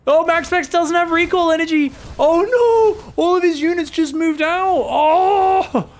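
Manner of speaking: screaming high and loud in alarm; frantic caster's scream; panicked shout. Real, not acted. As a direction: yell it like the game just collapsed. Caster panics at undefended base.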